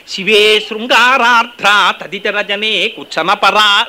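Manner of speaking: slow drawn-out verse chant; sloka recitation. Acted. Preacher quoting Soundaryalahari, slow chant. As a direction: dwell on each word of the verse.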